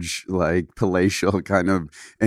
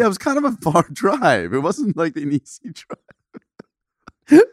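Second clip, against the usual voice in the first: high voice breaking up with laughter; laughing while talking; 10 semitones higher, slower than usual. Real, not acted. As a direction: squeeze the words out through laughter. Cracking up at the laundry story.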